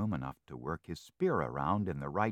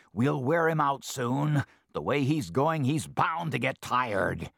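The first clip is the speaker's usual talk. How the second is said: scheming fox; 7 semitones higher, 6 dB louder than usual. Acted.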